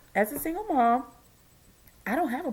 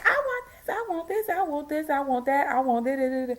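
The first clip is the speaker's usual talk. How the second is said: put-on whiny child; 3 semitones higher than usual. Imitating a whiny demanding child.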